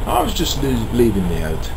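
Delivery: slipping into a London accent; London accent creeping in, dropped h on "hot-". Real, not acted. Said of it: "I'm slipping into the, um, London accent".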